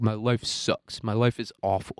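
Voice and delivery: slow, drawn-out mopey whine; mock whiny actor. Mocking a sulky actor's moaning, drawn out slow. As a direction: drag it out like a sulking celebrity. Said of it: "he'd be like".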